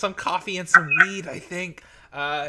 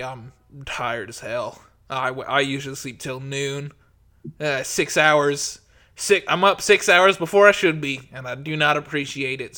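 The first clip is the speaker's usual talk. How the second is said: groggy grumble; 4 semitones lower, 3 dB louder than usual. Acted. Gundren complains about waking early.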